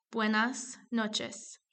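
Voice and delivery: slow "Buenas noches" with every S sounded; clearly pronounced S. Shown as a demonstration. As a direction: retain both final S sounds in "Buenas noches". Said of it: "se escucha claramente".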